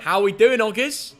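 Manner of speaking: hammed-up Australian, slightly Cockney; Aussie accent. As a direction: push the amateur Aussie accent harder. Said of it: "do your Aussie accent".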